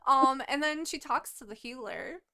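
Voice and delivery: ordinary talk, nothing marked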